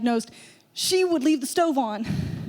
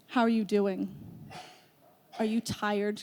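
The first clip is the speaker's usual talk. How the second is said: put-on soft old lady; 5 semitones lower, 7 dB quieter than usual. Old lady greets grandma.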